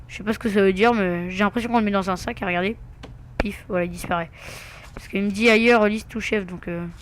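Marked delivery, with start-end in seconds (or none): 5.5-6.4 English in a heavy French accent; real French-accented English; thick French accent. Real, not acted. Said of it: "avec mon accent de malade en, en anglais".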